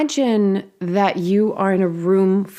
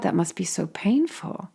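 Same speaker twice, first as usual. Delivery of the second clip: tender whisper; 6 dB quieter than usual. Acted. Whispered within caring quote.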